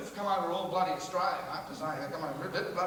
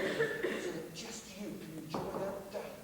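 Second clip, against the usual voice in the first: slow, fading to very soft; hushed awe; 9 dB quieter, slower than usual. Acted. Telling of the day the thongs give in, hushed. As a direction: let it sink into a reverent hush. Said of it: "the world seems to go silent".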